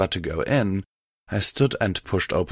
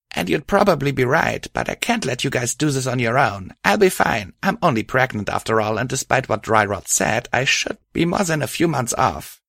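lightly raised female voice, reassuring; a friend gently insisting she'll cope; Patch voice; 4 semitones higher than usual. Acted.

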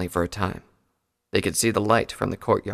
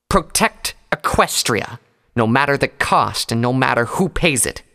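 slow, louder growl; 4 semitones higher, 5 dB louder than usual. A narrator's reading. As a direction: grind out the creed. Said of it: "she growled".

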